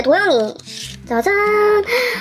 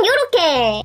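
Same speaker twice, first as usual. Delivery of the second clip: ordinary talk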